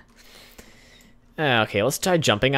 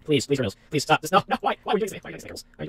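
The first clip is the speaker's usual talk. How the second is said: exasperated plea; 6 semitones higher, much faster than usual. Real, not acted. Kerbal keeps falling off ladder.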